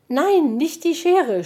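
hoch und laut schreien, gedehnt. A narrator's reading. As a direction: panisch um die Schere flehen. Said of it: "schrie Puh". (Puh schreit entsetzt, laut und hoch)

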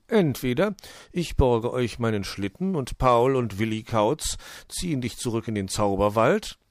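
leicht angedeutete Figurenstimme eines Uhus; erklärender Uhu. Acted. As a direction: leg die Möglichkeit als Uhu dar. Uhu explains the options. (sachlich erklärender Uhu, dezent gespielt)

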